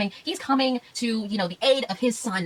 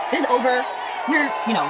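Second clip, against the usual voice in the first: exasperated outburst; 2 semitones higher than usual. Real, not acted. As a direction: throw This is over out in frustration. Exasperated loud verdict on film.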